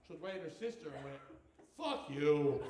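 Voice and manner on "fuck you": lower, deliberate "Fuck you"; clearly spoken. Retold or imitated. Toddler looks right at her sister, "Fuck you" crystal clear. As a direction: imitate a toddler saying "Fuck you" with perfect clarity. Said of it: "she spoke as clear as hell".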